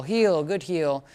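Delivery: heel, good heel drawn out slowly; slow marking cue. Shown as a demonstration. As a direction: stretch each word of heel, good heel. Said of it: "using a lot more healing, good heel".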